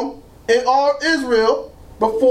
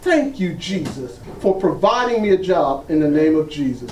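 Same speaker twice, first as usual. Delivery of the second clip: thankful prayer; 8 semitones lower than usual. Retold or imitated. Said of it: "he is to say".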